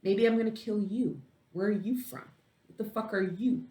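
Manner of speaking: high, menacing mock thug voice; menacing assassins. Assassins threatening the man who hired them, mock menacing. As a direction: sneer at him like a hired killer. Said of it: "these assassins are looking at him going".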